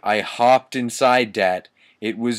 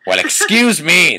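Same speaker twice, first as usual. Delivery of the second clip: higher, louder hammed-up shout; mock indignant shout; 7 semitones higher, 9 dB louder than usual. Reading the fanfic aloud, a hammed-up indignant shout. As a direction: huff it out indignantly. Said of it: "they both shouted angrily".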